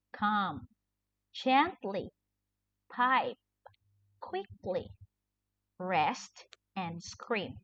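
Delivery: each word said clearly on its own, with a pause after it; word list read aloud. Shown as a demonstration. Teacher reviews the spelling words, reading each one aloud. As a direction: read each vocabulary word out slowly for the class. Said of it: "I'll be reading the words again".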